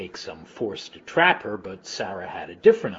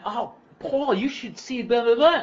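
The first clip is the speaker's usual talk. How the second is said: much higher, sing-song heavy Long Island accent mimicking Mom; 5 dB louder than usual. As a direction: chirp it up high like a Long Island mom on the phone. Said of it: "She's got this kind of heavy Long Island, sort of a sing-songy".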